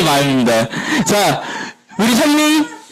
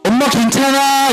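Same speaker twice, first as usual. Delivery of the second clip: comforting mom; 6 semitones higher than usual. Acted. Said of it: "이렇게 안아주는".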